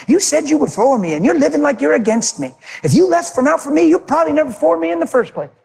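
lightly voiced God, disappointed; voicing God. God voiced rebuking wife in testimony.

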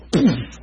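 short, sudden grunt of someone dropping; a quick mock "oof" as he falls; imitated collapse noise. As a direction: mimic a body knocked to the floor. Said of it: "He just went".

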